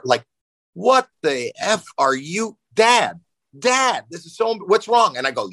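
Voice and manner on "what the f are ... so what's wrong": high, alarmed imitation of a daughter; mock terror. Daughter pulled out of class by her dad, hammed-up terror. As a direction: act out a horrified kid confronting dad. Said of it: "in terror".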